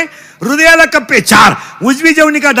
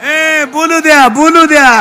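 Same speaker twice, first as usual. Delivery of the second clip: put-on slow, slurred higher drunk plea; mock drunk; 4 semitones higher, 3 dB louder than usual. Preacher mimics a drinker demanding to speak, slurred. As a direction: let me talk, like a tipsy man.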